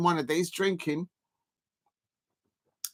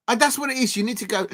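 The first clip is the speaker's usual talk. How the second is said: normal talking voice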